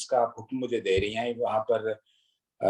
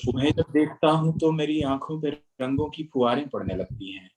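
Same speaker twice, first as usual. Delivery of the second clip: stately nazm recitation; 2 semitones higher than usual. Acted.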